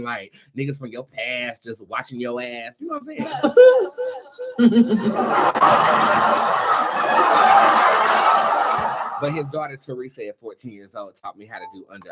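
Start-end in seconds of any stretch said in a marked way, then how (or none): 3.3-9.2 long airy wheezing laugh; breathless laugh. Real, not acted. Laughing at her past watching her show, wheezing laugh.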